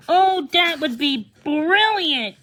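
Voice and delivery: bright, slow, delighted outburst; a child thrilled by the idea; excited girl. Acted. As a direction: gush with delight. Ellie's excited reply in story.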